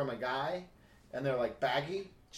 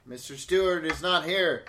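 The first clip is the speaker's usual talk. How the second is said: a light Patrick Stewart voice; lightly voiced stately English actor; mild Patrick Stewart denying he's home; Patrick Stewart impression; 4 dB louder than usual. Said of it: "You sound exactly like Patrick Stewart".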